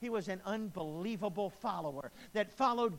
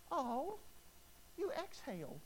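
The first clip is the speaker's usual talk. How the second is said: mock sarcastic reply; 10 semitones higher than usual. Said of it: "was I supposed to look at her and go".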